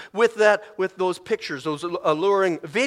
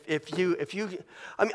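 normal talking voice

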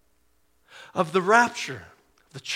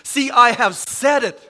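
louder, ringing declaration of God's words; emphatic proclamation; 5 semitones higher, 7 dB louder than usual. Acted. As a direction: announce it like a prophet. Quoting God's prophecy, repeated.

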